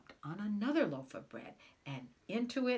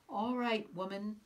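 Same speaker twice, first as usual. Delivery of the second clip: bellowing; 3 semitones higher than usual. Acted. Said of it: "bellowed the giant at the door".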